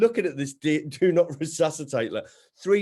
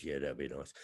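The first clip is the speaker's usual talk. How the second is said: mum's voice; 11 semitones lower, 13 dB quieter than usual. Retold or imitated. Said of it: "He goes".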